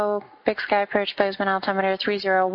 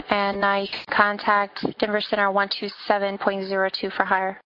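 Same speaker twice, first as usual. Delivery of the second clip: air traffic control radio. Acted. Controller reading clearances on frequency.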